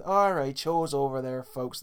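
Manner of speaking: a hint of broad Irish American cop accent. Co-host imitating cartoon Irish cops clearing a crowd, lightly put-on Irish American accent. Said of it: "They all sound like, um, that one, uh, Irish cop".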